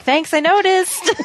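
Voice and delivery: high, drawn-out mock yell; mock yell back. Player yells back at game companion, mock yelling. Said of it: "I usually yell back at him".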